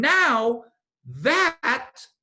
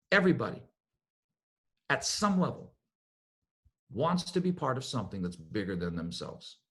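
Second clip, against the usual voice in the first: much softer and lower, like a confided secret; 9 semitones lower, 8 dB quieter than usual. Shown as a demonstration. Letting the audience in on a secret, hushed and low. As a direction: drop the voice to share a secret. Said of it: "let me tell you a secret".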